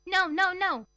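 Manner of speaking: high, loud protesting no; little man crying out in protest. A narrator's reading. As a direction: cry out in alarmed refusal. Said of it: "he cried".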